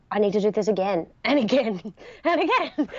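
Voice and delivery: laughing through the words; giggling at her own eagerness; laughing as she says it. Real, not acted. Laughing about repeating the ride.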